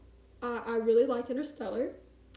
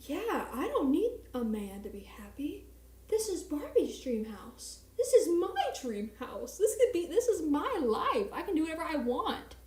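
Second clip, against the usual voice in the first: inspired; 4 semitones higher than usual. Retold or imitated. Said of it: "suddenly I'm like".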